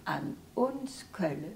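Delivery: measured Kölsch verse reading; simple spoken recital of a hometown poem; poem recitation. Real, not acted. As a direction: recite the dialect poem line by line, pausing after each. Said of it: "Magst du uns noch was vortragen".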